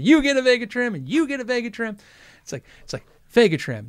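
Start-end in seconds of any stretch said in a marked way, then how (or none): 0.0-2.0 mock Oprah giveaway shout, higher and louder; hammed-up talk-show host handing out prizes. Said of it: "I'm like Oprah".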